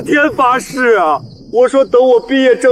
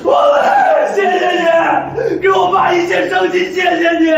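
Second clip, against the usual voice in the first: high, urgent gratitude; emotional thanks; 6 semitones higher, faster than usual. Acted. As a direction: thank him with all your heart. Grateful son thanks witness.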